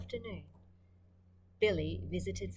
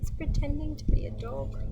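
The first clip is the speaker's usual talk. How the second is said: excited explaining; 8 semitones higher, 8 dB louder than usual. Real, not acted. Reader explains to kids.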